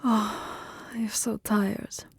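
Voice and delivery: sighing, drowsy vampire endearments; tender, weary concern. Acted. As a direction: soothe a tired lover while drifting off. Exhausted lovers sinking into rest.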